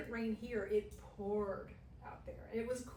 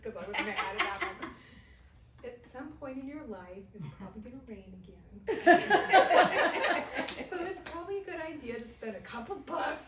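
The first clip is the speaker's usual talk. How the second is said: gentle version; 3 semitones higher, 9 dB louder than usual. Shown as a demonstration. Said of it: "I could have said".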